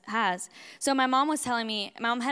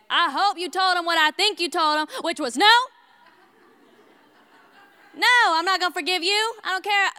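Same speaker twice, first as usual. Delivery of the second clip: louder, higher, indignant retort to Mom; upset child's retort; 6 semitones higher, 6 dB louder than usual. Retold or imitated. Young daughter telling Mom to refuse forgiveness, indignant and loud. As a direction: snap back like an offended little girl. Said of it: "I was so upset".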